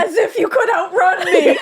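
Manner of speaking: slow, hammed-up brooding vampire line; Twilight vampire quote. To co-host, quoting the Twilight vampire dramatically. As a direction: draw it out like a moody teen vampire. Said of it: "What does he say?".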